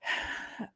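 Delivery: quiet, unvoiced exhale; soft sigh. Real, not acted. Host pauses before explaining the plan, soft sigh. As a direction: let out a soft breathy sigh.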